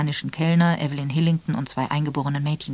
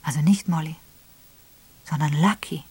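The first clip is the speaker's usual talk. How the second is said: stunned repeat. Acted. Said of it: "nach einer Pause wiederholte sie".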